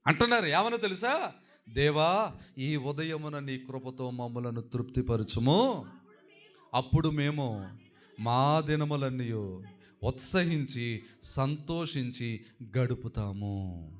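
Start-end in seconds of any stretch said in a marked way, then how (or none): 1.7-5.9 slow, measured recital of a psalm; prayerful scripture reading. Shown as a demonstration. Preacher shows how Moses prayed for grace, slow prayerful reading. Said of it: "మోషే గారు ఈ కీర్తనలో ప్రార్థన చేస్తూ అంటున్నారండి". 6.7-13.9 slow, spaced-out psalm recital; prayerful scripture reading. Retold or imitated. Preacher voices Moses praying in the psalm, slow prayerful reading. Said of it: "మోషే గారు ఈ కీర్తనలో ప్రార్థన చేస్తూ అంటున్నారండి".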